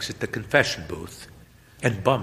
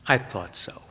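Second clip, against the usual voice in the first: wistful; 2 semitones higher than usual. Acted. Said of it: "with a wistful smile says".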